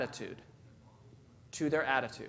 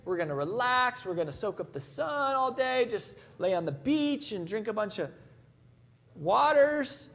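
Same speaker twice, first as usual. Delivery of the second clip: excited daydream; 3 semitones higher than usual. Retold or imitated. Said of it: "So I'm just thinking".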